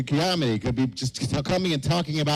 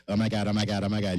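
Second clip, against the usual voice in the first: a light teasing Valley girl impression; 6 semitones lower, faster than usual. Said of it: "yes, the Valley Girl thing".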